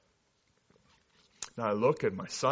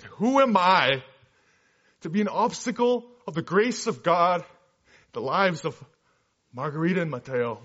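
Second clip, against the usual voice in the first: loud, raised, emphatic father; imitated fatherly voice; 5 semitones higher, 7 dB louder than usual. Father refuses to stand in the way of his son's marriage, imitated emphatic fatherly voice. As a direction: declaim it as a dad, stretching the opening words. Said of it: "in his deep fatherly voice".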